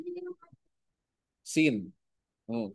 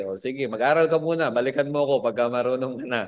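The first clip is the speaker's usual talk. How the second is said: mock smug dismissal; 4 semitones lower, faster than usual. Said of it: "medyo mayabang".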